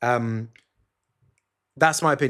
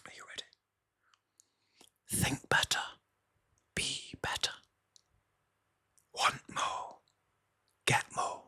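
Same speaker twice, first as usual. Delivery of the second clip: mock-solemn breathy whisper, pausing between phrases; sarcastic whisper; 10 dB quieter than usual. Host whispers a mock mantra to listeners, sarcastic whisper. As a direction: whisper it like a fake self-help guru. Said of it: "cottoned on with the sarcasm there".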